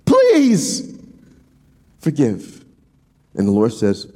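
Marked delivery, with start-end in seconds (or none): 0.0-2.6 very high, strained begging voice; pleading Amos. Retold or imitated. Preacher acting Amos begging God to forgive, high and strained. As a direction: plead with God, pitched way up then dropping. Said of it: "He said".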